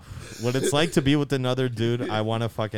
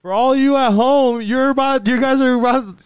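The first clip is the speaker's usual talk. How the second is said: excited announcer; 8 semitones higher, 5 dB louder, slower than usual. Real, not acted. Announcing to viewers.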